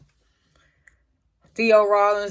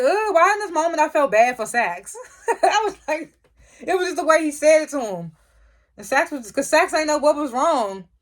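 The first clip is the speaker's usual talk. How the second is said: high, loud voice breaking into laughter; laughing sympathy; 9 semitones higher, 4 dB louder than usual. Real, not acted. Fan feeling bad for a snubbed character, laughing and high-pitched. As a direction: squeal it through real laughs.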